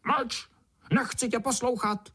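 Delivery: very high sharp scolding; high shrill beetle scolding; snapping beetle. A narrator's reading. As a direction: bark her into silence. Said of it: "okřikovala mravence".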